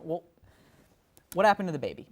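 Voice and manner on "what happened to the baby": exasperated shout. Acted. Anchor exasperated at interview.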